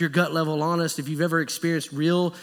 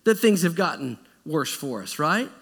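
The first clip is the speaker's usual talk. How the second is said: raised, higher, louder grumbling at Moses; the Israelites turning on Moses and Aaron, loud and aggrieved; complaining crowd; 5 semitones higher, 4 dB louder than usual. Acted. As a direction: blame him loudly, like a fed-up crowd. People blaming Moses and Aaron.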